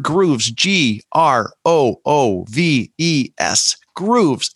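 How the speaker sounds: slow, spelled-out ad announcer read; insurance commercial. Acted. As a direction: sell it like a TV spot. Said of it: "sounding like an insurance commercial".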